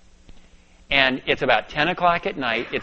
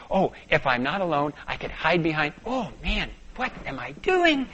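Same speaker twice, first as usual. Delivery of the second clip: anxious thoughts. Retold or imitated. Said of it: "I'm thinking".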